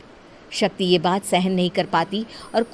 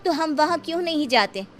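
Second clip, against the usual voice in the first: put-on higher, curious young girl asking; a girl pleading innocently with her elder; 5 semitones higher than usual. Young Shakti questioning her guardian, curious and high.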